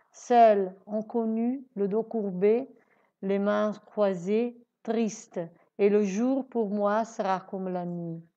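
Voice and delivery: measured poem reading, paused at each phrase; poem recitation. Acted. Teacher reading Victor Hugo's poem to learners, measured recitation. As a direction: read the verse out line by line, lightly stressing openings.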